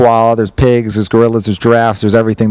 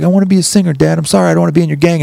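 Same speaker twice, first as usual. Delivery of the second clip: higher-pitched confession to dad; pleading young son; 5 semitones higher, faster than usual. Acted. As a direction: blurt it out as an apologetic son.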